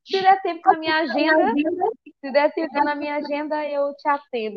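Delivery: lightly acted hard-to-get tease; mock snub. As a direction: play at brushing someone off. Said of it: "acho que ela queria me esnobar".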